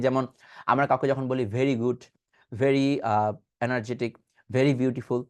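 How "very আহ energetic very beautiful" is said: very with a breathy bh, said slowly as bheri; the usual Bangla bh very. Shown as a demonstration. Teacher demonstrating the common Bangla bheri for very. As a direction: say very the way Bangla speakers learnt it, bheri. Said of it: "আমরা কিন্তু very বলতে অভ্যস্ত".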